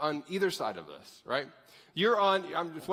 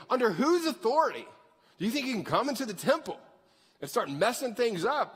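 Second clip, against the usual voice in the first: higher-pitched mock outrage; acted affronted questioners; indignant challenge; 4 semitones higher than usual. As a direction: challenge his authority, pitched up.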